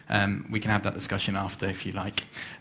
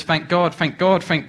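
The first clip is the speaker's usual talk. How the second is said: higher and louder with each call, slowly spaced; building urging; 6 semitones higher, 5 dB louder, slower than usual. Acted. Rider urges the horse to speed up, calls growing louder.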